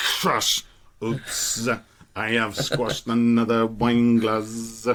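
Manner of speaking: flat, very slow monotone drone on every word. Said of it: "And it'd be like".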